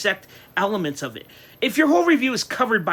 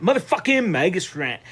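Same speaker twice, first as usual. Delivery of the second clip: hype announcement. Acted. Hyping his own rant segment.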